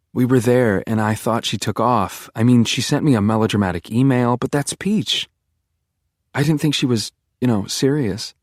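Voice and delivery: lightly voiced girlfriend, shaken and rambling; girlfriend voiced, upset. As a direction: girlfriend explaining her friend's death, mildly upset.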